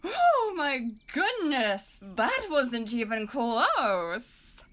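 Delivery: slow, drawn-out mock astonishment. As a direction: savour his failure, slowly. Cousin mocks the missed throw.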